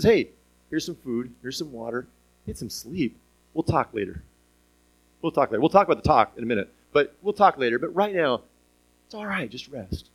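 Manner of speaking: God gently caring for worn-out Elijah; gentle God. Retold or imitated. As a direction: comfort an exhausted friend. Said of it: "he just treats him gently".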